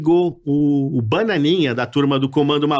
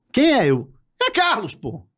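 much higher put-on voice of a TV boss on the phone; Carlos Alberto; 6 semitones higher than usual. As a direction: fake the boss calling, pitched way up. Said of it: "igual a voz, o Carlos Alberto". (imitação do chefe ao telefone, bem aguda)

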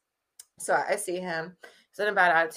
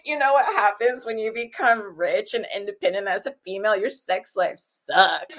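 quoting her; 4 semitones higher, 7 dB louder than usual. Retold or imitated. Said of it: "she's like".

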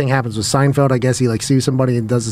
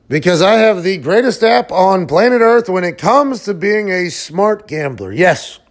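upbeat hyped ad-read delivery; sponsor ad read. Acted. Host reading a sponsor spot to listeners, hyped ad voice. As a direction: sell the betting app like a pitchman.

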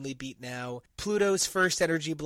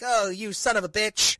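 higher and louder, a hammed-up curse; mock outraged retort; 6 semitones higher, 7 dB louder than usual. Team cursing at Ghost Rider, mock loud outrage. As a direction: snap it out like a betrayed teammate.

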